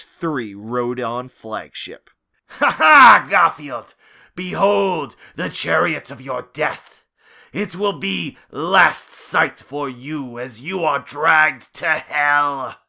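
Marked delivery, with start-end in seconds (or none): 2.5-12.8 lightly voiced mad king snarling; a hint of a crazed villain king. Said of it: "snarled King George three with madness".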